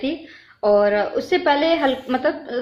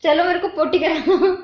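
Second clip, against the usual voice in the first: higher voice bubbling with laughter; giggling plea; 4 semitones higher than usual. Real, not acted. Asking family to take her along, laughing. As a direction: beg through giggles.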